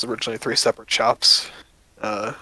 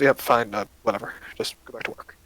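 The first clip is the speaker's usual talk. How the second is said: dismissive sigh. Acted. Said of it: "sighs and goes".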